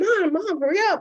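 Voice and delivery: put-on high, loud impatient child nagging; snapping. Daughter snapping at her late mom, imitated high and loud. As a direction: snap at mom to hurry, half acted.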